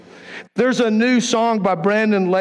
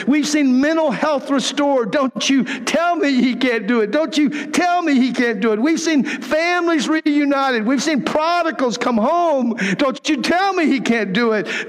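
raised, fervent declaration of the lyrics; preaching lyrics; 5 semitones higher than usual. Acted. Preacher to congregation, reading song lyrics with fervour. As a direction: proclaim it like a testimony.

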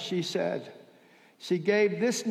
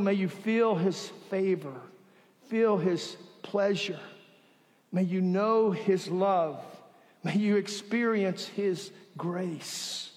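benediction; 2 semitones lower, 3 dB quieter than usual. Acted. Pastoral benediction.

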